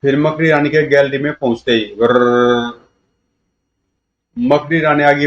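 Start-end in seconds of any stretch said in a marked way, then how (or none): 2.0-2.8 drawn-out rolling "grrr"; rolled noise effect. A narrator's reading. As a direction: roll out the sound with the tongue. Imitated noise in narration. (लंबी गर्र की आवाज़)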